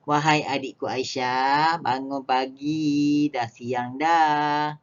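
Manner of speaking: slow, pleading wake-up call; gentle pleading wahai; coaxing. Shown as a demonstration. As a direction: coax a little sister out of bed. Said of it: "sayang dan juga merayu".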